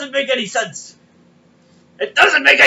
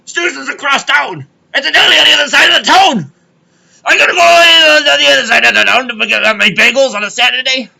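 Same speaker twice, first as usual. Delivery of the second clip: loud, higher, fed-up rant; telling the deli story, ranting; exasperated shouting; 3 semitones higher, 6 dB louder than usual. Retold or imitated. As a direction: vent it loudly. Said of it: "He goes".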